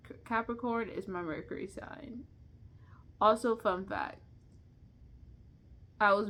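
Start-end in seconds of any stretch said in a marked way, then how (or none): 0.1-2.2 whispered aside; whispering. Real, not acted. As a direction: whisper it like a secret. Confides her Mercury sign.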